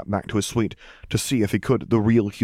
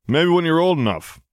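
mother's reply; 9 semitones higher, 4 dB louder than usual. Acted. Ma answering the teenage boy.

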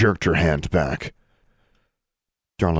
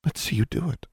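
high, soft daring taunt; 9 semitones higher, 3 dB quieter than usual. A narrator's reading. Darla daring Alexandra, soft high taunt. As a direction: dare her to do it. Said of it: "her voice taunted Alexandra".

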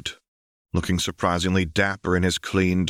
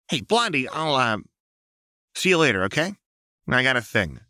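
higher, evasive and fidgety; nervous Jinx; 7 semitones higher than usual. A narrator's reading. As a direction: dodge the question brightly.

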